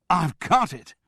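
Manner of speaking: loud sudden eureka cry; a man shouting his realisation; excited shout. A narrator's reading. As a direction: Charles cries out his discovery, loud. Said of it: "he shouted".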